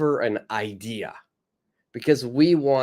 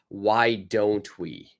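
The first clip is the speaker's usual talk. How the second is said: slow model phrase; 3 semitones lower, slower than usual. Shown as a demonstration. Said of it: "last suggestion is".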